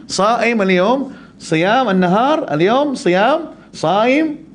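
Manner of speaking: very slow, high mock Arabic repetition; imitating an Arab repeating the word; Arab explaining. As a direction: spell it out slowly like to a foreigner.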